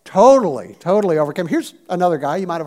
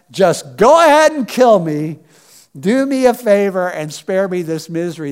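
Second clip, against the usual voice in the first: loud burst, easing into a fed-up plea; exasperated plea; 5 dB louder than usual. Acted. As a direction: beg dramatically to be put out of misery. Acts out Moses' despairing prayer.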